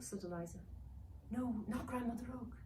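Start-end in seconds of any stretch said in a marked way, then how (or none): 1.3-2.5 higher elf voice, alarmed refusal. Acted.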